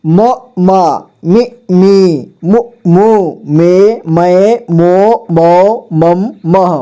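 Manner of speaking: slow, sing-song syllable recitation; slow teacher drill chant. Shown as a demonstration. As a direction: chant each syllable out for the class. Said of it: "इसके बाद".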